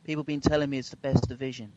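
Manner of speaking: lightly done Donald Trump voice; Trump impression. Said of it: "It was a Donald Trump accent".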